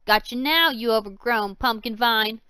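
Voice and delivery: put-on villain grabbing the girl, shouting in triumph; exclaiming. Loxy yanking Amy up from the river, loud gloating exclamation. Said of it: "Loxy exclaimed".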